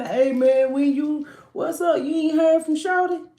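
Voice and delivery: high, loud buddy fishing for gossip; lightly acted friend's fake concern; scheming homeboy voice. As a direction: play the sneaky friend checking in. Tarot reader voices a scheming homeboy.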